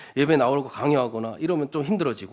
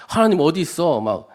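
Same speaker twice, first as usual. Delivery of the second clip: mock defiance; 2 semitones higher, 6 dB louder than usual. Preacher acts out someone challenging God, mock defiant and loud. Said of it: "이러면서 하나님께 대항하는 거예요".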